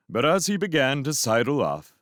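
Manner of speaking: ordinary delivery, nothing marked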